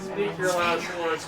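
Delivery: slow, drawn-out villain threat; slow theatrical villain menace. Pretend. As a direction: taunt like a boss villain. Voicing boss taunt.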